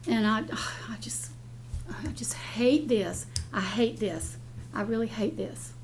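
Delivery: hushed and worn out, letting it go; emotional. Real, not acted. Commissioner ending her plea to the board, quiet and drained. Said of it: "I am getting emotional".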